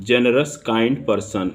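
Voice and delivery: generous kind person drawn out slowly; slow dictation read. Shown as a demonstration. Teacher reading the example for students, slow and drawn out. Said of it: "क्योंकि जी से उच्चारण है आपका".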